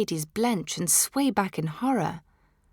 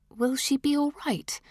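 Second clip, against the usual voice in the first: nervously; 8 semitones higher than usual. A narrator's reading. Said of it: "I ask nervously".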